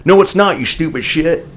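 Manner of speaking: mock heckler. Older moviegoer snapping back at a shusher, mock heckling. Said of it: "That's what he said".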